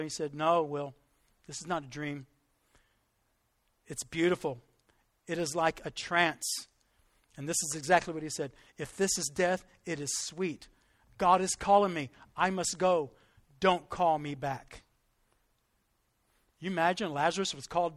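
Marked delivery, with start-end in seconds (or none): 0.3-6.7 low, softened retold voice; gentle deathbed words. Dying father answering his son, gently retold. 8.8-14.8 gentle deathbed farewell. Retold or imitated. Dying preacher accepting God's call, gently retold.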